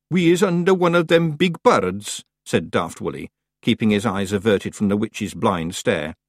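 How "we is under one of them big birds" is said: high-pitched, earnest Scots voice; simple-minded Scots clansman. Acted. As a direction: blurt it out as the daft brother. Daft Willy blurts an explanation.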